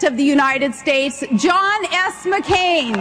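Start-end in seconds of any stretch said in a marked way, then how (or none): 1.4-3.0 rousing name announcement. Real, not acted. Announcing nominee's name to crowd.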